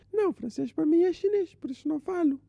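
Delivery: high, indignant show-off uncle; a boastful uncle talks down to his nephew in a high voice; arrogant uncle. Acted. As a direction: puff up and snap back like a know-it-all uncle.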